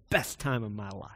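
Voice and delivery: low, soft and heartfelt; quiet sincerity. Retold or imitated. Mentor answering about his seminary years, quiet and sincere.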